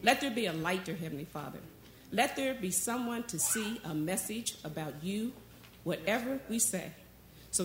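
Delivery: measured, reverent prayer voice; earnest prayer. Real, not acted. Pastor praying to Heavenly Father before the message, earnest prayer. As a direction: pray aloud in short, heartfelt phrases.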